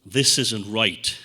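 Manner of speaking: sharp uh-uh, then slow and firm; a sudden inner alarm; mock alarm going off; warning voice. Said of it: "warning signals like".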